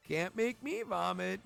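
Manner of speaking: giggly mock Pokemon voice through a closed mouth; mouth held shut. Streamer plays Victory Bell refusing to vomit, mouth held shut. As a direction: playfully talk while holding the mouth shut. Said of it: "holding its mouth closed like".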